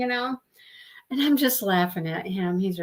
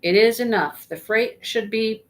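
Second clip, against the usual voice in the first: measured poetry recital, louder at first; poem reading; 3 dB louder than usual. Acted. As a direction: read the verse aloud for the book club. Reads a poem aloud.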